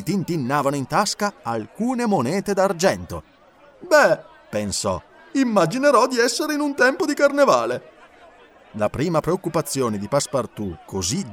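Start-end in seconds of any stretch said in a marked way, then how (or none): 3.8-4.2 put-on higher, brighter-pitched young man thinking aloud; Passepartout's voice. A narrator's reading. 5.3-7.9 put-on higher, brighter-pitched young man thinking aloud; Passepartout's voice. A narrator's reading.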